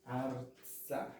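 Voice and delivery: "Arza" in two careful syllables; correct pronunciation. Shown as a demonstration. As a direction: say "Arza" with no vowel after the r. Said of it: "e sim arza".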